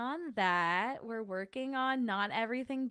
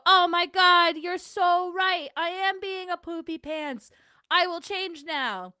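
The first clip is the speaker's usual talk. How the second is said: much higher, louder gushing pretend voice; mock repentant; 10 semitones higher, 10 dB louder than usual. Imagined scolded person gushing agreement in a high mock voice. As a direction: play the instantly converted wrongdoer. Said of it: "And then they go".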